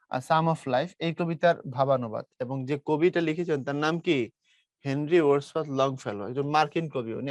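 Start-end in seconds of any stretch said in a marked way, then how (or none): 0.1-0.9 "Sum" starting straight on s, P dropped; silent P. Shown as a demonstration. Teacher shows students how the title is said, silent P in "Sum". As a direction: pronounce "Sum" without any p sound. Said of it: "পি এখানে silent হবে".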